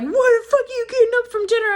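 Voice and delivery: high fast mock-angry stepfather. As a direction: snap at her like an irritated stepfather. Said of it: "he's like".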